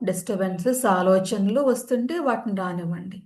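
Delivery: calm, even yoga nidra guidance; measured meditation-teacher voice, unhurried gaps between phrases; guided meditation. Real, not acted. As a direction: settle listeners into stillness, with long pauses between instructions.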